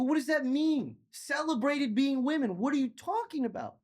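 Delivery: can't believe what he's hearing; incredulous. Retold or imitated. Incredulous boyfriend.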